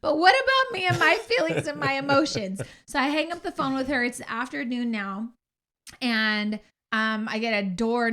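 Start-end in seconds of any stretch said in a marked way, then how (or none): 0.0-2.6 exasperated. Retold or imitated. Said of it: "I go".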